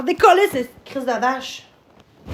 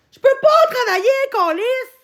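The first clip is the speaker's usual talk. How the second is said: angry rant; 7 semitones higher than usual. Real, not acted. Streamer angrily rants at viewers.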